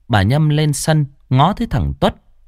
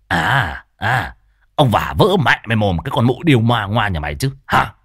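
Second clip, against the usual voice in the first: thuggish cursing; 2 semitones lower than usual. Acted. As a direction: threaten the neighbour woman aggressively. Tuất fighting and cursing. (giọng trầm, chửi hung hăng)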